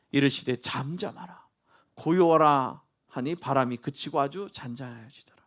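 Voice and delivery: usual speaking voice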